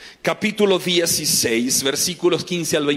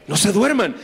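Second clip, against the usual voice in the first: emphatic warning; 4 semitones higher than usual. Shown as a demonstration. Preacher urging the congregation, a raised firm warning. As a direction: press it home firmly. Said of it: "Jóvenes, hermanos".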